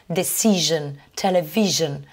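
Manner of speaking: Decision, television with the S voiced as zh; zh sound. Shown as a demonstration. Teacher shows students the S said as je. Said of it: "ce S, il se prononce avec le son je".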